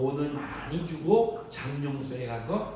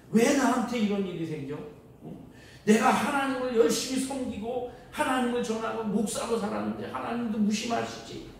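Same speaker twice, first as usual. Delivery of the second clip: higher, pleading protest at God; a hurt, indignant cry to heaven; indignant complaint; 6 semitones higher than usual. Retold or imitated. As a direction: complain to God with rising heat. Anger stage, pastor quoted.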